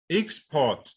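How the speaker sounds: export with a high EX, falling on port; front-stress export as EX-port; stress on first syllable. Shown as a demonstration. Teacher repeating the contrast, export stressed on EX. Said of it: "stress that you could have".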